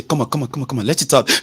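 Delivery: lightly urging someone to let it out; a mild come-on-let-it-out nudge; coaxing. Retold or imitated. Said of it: "they will say".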